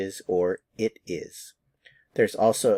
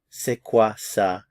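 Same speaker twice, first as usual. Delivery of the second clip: slow modelled phrase; 4 dB louder, slower than usual. Shown as a demonstration. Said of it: "is to say".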